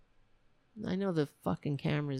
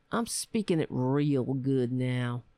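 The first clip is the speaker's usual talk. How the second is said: imitating drill sergeant; 5 semitones lower, slower than usual. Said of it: "That's what the drill sergeant used to say".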